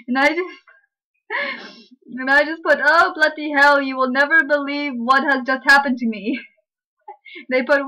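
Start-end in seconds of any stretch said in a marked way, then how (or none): 2.8-6.4 hammed-up Brit in trouble; mock British dismay. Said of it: "How's that British?".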